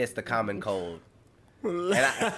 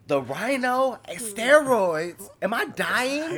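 much higher, slow, hammed-up alarm; mock terror; 12 semitones higher, 5 dB louder, much slower than usual. Host retelling his fear after hearing rhinovirus and steroids, high mock terror. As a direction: squeal it like you're dying. Retold fear over diagnosis.

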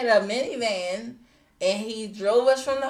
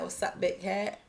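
Baltimore accent, imitated; 3 semitones lower, 10 dB quieter than usual. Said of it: "the way they say it with the little Baltimore accent".

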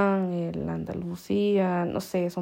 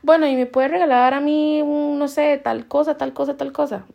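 higher-pitched, polite asking; courteous, sweet request; 5 semitones higher, 4 dB louder than usual. Acted. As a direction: act out a sweetly courteous customer. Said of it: "dulce, es como". (petición cortés y dulce, más aguda)

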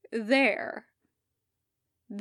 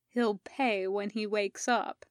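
blank; 3 dB quieter than usual. Acted. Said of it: "he tells them blankly".

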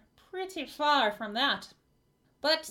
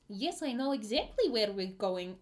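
Puddle; 2 semitones lower, 3 dB quieter than usual. Acted. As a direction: answer as the odd old guide, pitch swooping. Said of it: "almost sounds like the voice".

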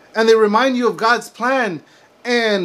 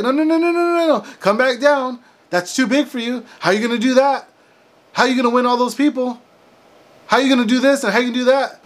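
mocking naysayer; 2 semitones higher, faster than usual. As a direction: squeak out the refusals, then rattle off the doubts fast.

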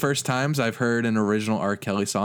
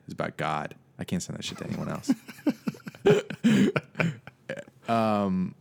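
normal talking voice

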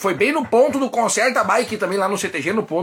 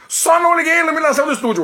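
laughing; 7 semitones higher, much faster than usual. Real, not acted. Laughing at own mistake.

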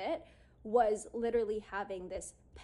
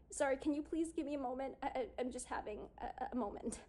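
mildly flustered, fast and stammering; imitating a shaky voice; 4 semitones higher, faster than usual. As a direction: rush a faltering apology, lightly acted. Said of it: "through my shaky voice".

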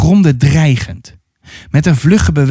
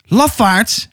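higher-pitched, lightly acted cry; calling out; 6 semitones higher than usual. Atta calls at her uncles left among the trees, mild cry. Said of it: "riep Atta".

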